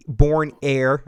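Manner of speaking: a hint of Boston accent; lightly Boston-accented; Boston accent slip. Real, not acted. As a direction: let Boston creep into the vowels. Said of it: "I sounded Boston there for a second".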